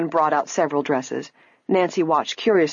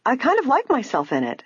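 higher, mildly pleased voice; grinning; 9 semitones higher than usual. A narrator's reading. Nancy pleased with herself in the dress, grinning. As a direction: say it with a grin. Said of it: "Nancy grinned".

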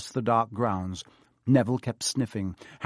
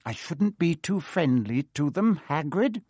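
coldly; 4 semitones higher than usual. Acted. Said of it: "said Filch coldly".

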